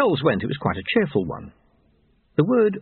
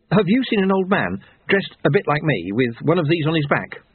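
higher-pitched, earnest questioning; anxious young man; 5 semitones higher than usual. Acted. Young man searching for his missing friend, anxious. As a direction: ask urgently, pitched up.

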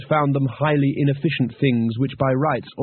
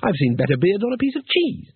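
Two Flower; 7 semitones higher than usual. Acted.

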